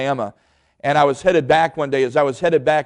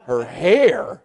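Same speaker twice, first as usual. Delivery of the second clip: relieved laugh. Real, not acted. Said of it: "I started laughing".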